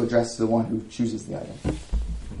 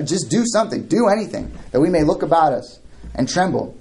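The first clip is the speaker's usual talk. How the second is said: goading, raised-pitch sarcasm; mocking challenge; 4 semitones higher than usual. God goading a statue to do anything, mocking. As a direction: dare the lifeless idol to act. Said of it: "imagine God talking to this, this statue".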